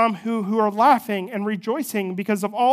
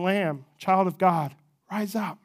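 tender shepherd call; slower than usual. Retold or imitated. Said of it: "in his shepherd format, is saying".

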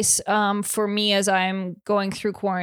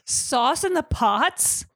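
imitating duck voice; 6 semitones higher, much slower than usual. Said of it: "Why is he even saying that".

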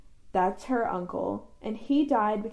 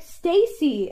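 imitated call in an American accent; raised, louder greeting in an American accent; 4 semitones higher, 4 dB louder than usual. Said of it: "in an American accent".

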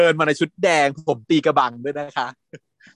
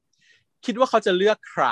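cool taunt; 7 semitones higher, much slower than usual. Retold or imitated. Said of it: "แล้วก็พูดว่า".

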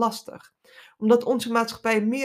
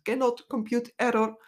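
glitching robot; 4 semitones higher than usual. Pretend. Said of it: "melding op je interne beeldscherm".

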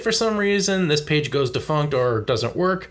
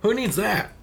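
lightly voiced smug Nintendo exec; mocking Nintendo; 3 semitones higher than usual. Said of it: "try to be like".

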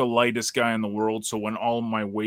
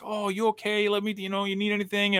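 caring wife; 9 semitones higher, 4 dB quieter than usual. Retold or imitated. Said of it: "it was like".

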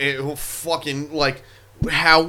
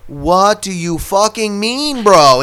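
shocked disbelief; 7 semitones higher, 7 dB louder, slower than usual. Retold or imitated. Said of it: "And I'm like".

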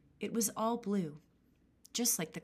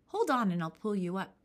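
put-on louder old woman calling down; old hag voice; 5 dB louder than usual. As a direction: call down the pole.

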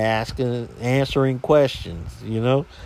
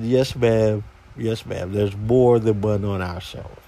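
low, contained customer-service reply; restrained politeness; 5 semitones lower than usual. Retold or imitated. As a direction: answer the caller low, holding back the sarcasm. His restrained reply to the caller.

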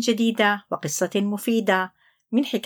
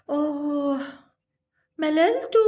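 bored to himself; 5 semitones higher than usual. Acted. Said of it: "قال عنتر في نفسه".

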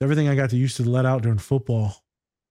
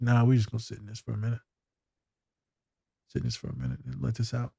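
gentle reassurance; 7 dB quieter, faster than usual. Retold or imitated. Therapist to a crying student, retold soft reassurance. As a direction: quietly give them room to let it out.

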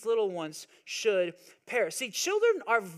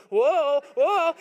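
put-on toddler voice; 4 semitones higher, 7 dB louder than usual.

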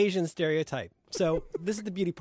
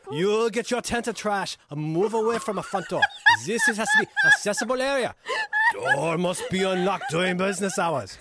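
mock Asian accent. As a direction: bark orders at the homeless in a fake accent. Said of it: "Why are you talking like that?".

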